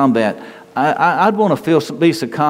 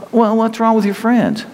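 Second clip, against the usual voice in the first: higher, playful dad comeback; teasing dad; 13 semitones higher than usual. Retold or imitated. Father answering his embarrassed teenager, teasing. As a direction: tease the kid back. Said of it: "and then you're going".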